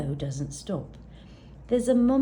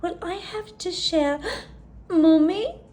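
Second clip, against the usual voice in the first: worried; 9 semitones higher, 5 dB louder than usual. Acted. Gertie suddenly worried.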